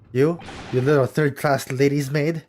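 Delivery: loud, contemptuous sailor sneer; a hint of a rough sailor; gruff sailor.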